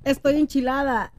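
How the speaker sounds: talking through a burning mouth from chips; speaking with a spicy-hot mouth, slowing down; mouth burning from spicy food. Real, not acted. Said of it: "Estaba comiendo Takis Fuego". (boca enchilada por los Takis)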